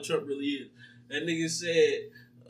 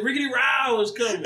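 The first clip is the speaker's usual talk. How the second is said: laughing shout; 5 semitones higher, 5 dB louder than usual. Retold or imitated. Retold skit, announcing allies.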